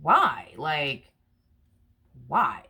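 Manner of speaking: sharp pitch swoop on a lone why; incredulous one-word question; baffled why. Acted. Asking why the other person is hurt, baffled. Voicing the listener's baffled reaction.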